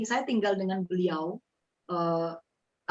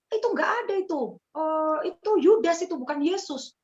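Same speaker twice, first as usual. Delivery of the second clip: higher, louder scornful retort; scornful dismissal; 10 semitones higher, 5 dB louder than usual. Retold or imitated. Father's relatives mock her new faith, scornful. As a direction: brush off her faith with contempt. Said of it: "mereka mulai bilang bahwa".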